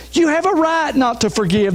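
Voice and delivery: a hint of a persuasive world voice; mild mock culture whispering permission; tempting culture voice. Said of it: "the culture's screaming".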